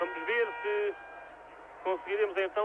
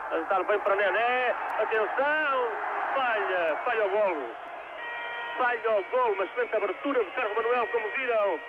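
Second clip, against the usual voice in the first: excited commentary; 3 semitones higher than usual. Real, not acted. Chance missed in live commentary.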